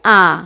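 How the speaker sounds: आ drawn out slowly with the mouth wide open; open आ demo. Shown as a demonstration. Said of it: "पूरा मुख खुलेगा". (मुँह पूरा खोलकर धीरे से लंबा आ)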